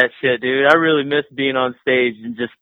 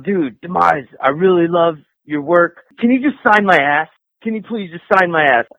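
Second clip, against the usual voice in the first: tag; 6 semitones higher than usual. Retold or imitated. Quoting an eager fan's request.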